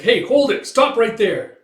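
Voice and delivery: high, loud order to stop; shouted halt. Retold or imitated. Man orders the attacker to stop, shouted halt. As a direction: call out a sharp challenge. Halting someone in fight.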